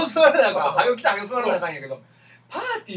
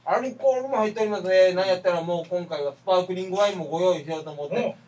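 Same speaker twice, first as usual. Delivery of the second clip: talking while chewing snacks; words round a mouthful of caramel corn; mouth full. Real, not acted. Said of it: "キャラメルコーン食べながら喋ってますからね".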